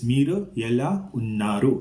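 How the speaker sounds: careful Telugu pronunciation of "Meeru ela unnaru"; Telugu phrase. Shown as a demonstration.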